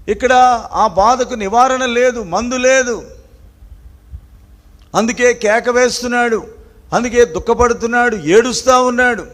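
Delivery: high, emphatic refrain; impassioned preaching. Real, not acted. Preacher explaining David's pain without remedy, impassioned preaching. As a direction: drive home each reason for the cry.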